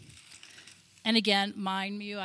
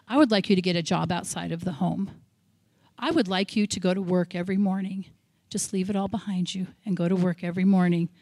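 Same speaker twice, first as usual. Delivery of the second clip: lower, measured voice of God, lightly played; imagined voice of God; 4 semitones lower than usual. Speaker imagining God releasing her from home duties, lightly voiced God. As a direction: lightly voice a hoped-for instruction from above. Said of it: "hoping he'd say".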